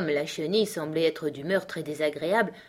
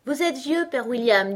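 high, loud schoolchild recitation; reciting; 8 semitones higher, 5 dB louder than usual. A narrator's reading. Alice starting her poem for the caterpillar, reciting. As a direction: recite the verse dutifully. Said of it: "joignit les mains et commença".

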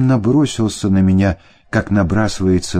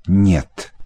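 snorted no. A narrator's reading. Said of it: "категорически фыркал он".

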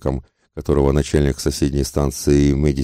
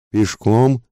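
high, rising shocked question; возглас изумления; 7 semitones higher, 3 dB louder than usual. A narrator's reading. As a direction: echo it as a startled higher cry, not much louder. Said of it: "закричали хором все пассажиры". (изумлённый вскрик с подъёмом тона)

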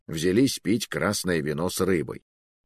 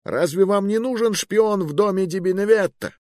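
desperate plea; 12 semitones higher than usual. Acted. Pleading narrator voice.

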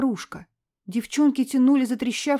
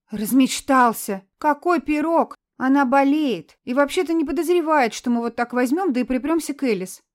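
scolding; 5 semitones higher, 5 dB louder than usual. Acted. Scolding a friend.

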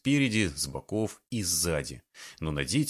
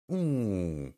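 drawn-out oo. A narrator's reading. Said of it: "протянула она".

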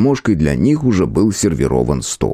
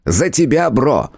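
lightly raised, cheeky elf voice; christmas elf; 7 semitones higher, slower than usual. A narrator's reading. Elf character voice.

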